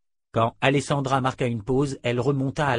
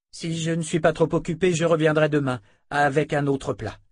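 reserved dark sister; 6 semitones higher, 4 dB louder than usual. Acted. Alessandra promises to return.

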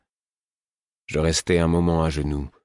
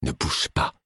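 ordering; 5 semitones lower, 4 dB quieter than usual. A narrator's reading. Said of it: "ordonnai-je".

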